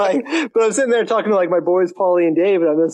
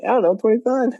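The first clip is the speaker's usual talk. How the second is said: laughing; 11 semitones higher than usual. Retold or imitated. Caught joking, laughing reply.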